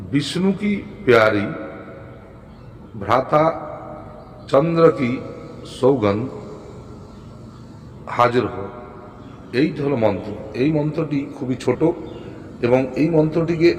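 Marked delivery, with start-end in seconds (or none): 0.1-8.7 spaced-out, dictation-like recital; phrase by phrase, unhurried. Shown as a demonstration. Repeats mantra slowly for learners.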